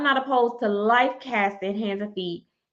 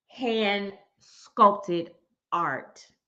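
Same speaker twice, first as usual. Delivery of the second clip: deliberate, slow delivery; 5 dB quieter than usual. Repeating a statement for listeners to write down; saying it slowly. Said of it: "I'm gonna say this slow".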